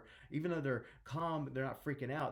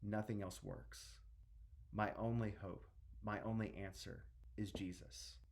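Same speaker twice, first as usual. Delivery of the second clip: hushed desperate plea; 3 semitones lower, 6 dB quieter than usual. Acted. Desperate father pleads, story retold.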